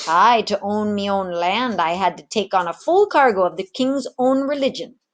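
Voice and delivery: a retired rogue content with his lot; easygoing old tavern keeper. Acted. Samuel turns Ginger down, lightly voiced old man.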